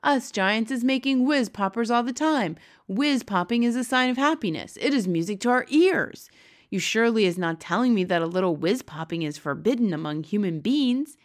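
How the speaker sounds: lightly voiced giant, full of enthusiasm; a hint of an indignant, happy giant; Big Friendly Giant. Giant defending whiz popping to Sophie, lightly voiced and emphatic.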